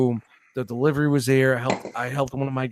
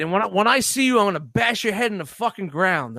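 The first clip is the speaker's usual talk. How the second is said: higher-pitched, half-acted threat; mock threat; 5 semitones higher than usual. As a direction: play the threatening customer, pitched up. Customer threatening the speaker.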